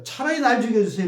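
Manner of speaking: fast, pushy demand; Jonah arguing. Retold or imitated. Jonah challenging God to take his life, fast pushy demand. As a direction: throw the plea at God like an accusation. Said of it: "이렇게 따지는 거예요".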